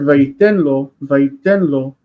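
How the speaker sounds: "vaitenlo" run together as a single word; "vaitenlo" joined up, no break before lo; said as one word. Shown as a demonstration. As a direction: blend "vaitenlo" into one unit. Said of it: "it has to go together".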